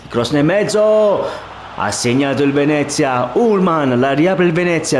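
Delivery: excited goal call; rising excitement calling the goal; breathless italian goal commentary. Real, not acted.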